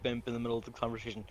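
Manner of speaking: usual speaking voice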